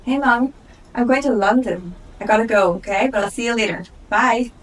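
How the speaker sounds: excited traveller. Acted. Eleanor lost at the airport, high and eager. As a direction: play a flustered first-time flyer.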